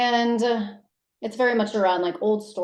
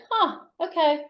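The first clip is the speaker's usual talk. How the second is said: curt huh; 10 semitones higher than usual. Retold or imitated. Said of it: "And I was just like".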